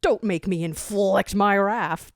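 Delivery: lightly voiced blustering villain; threatening tyrant. Barker calls out at the noise, mildly threatening. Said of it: "Barker threatens".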